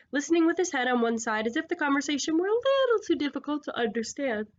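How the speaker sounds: words stretched by a yawn. Real, not acted. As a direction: read through a stifled yawn. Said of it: "I don't know why I'm yawning".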